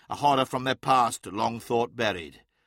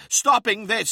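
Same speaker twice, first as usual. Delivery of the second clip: firm; 9 semitones higher, 6 dB louder than usual. Acted. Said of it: "said Araman".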